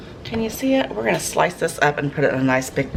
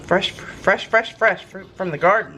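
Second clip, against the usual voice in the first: excited; 5 semitones higher, slower than usual. Real, not acted. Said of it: "I can't even talk".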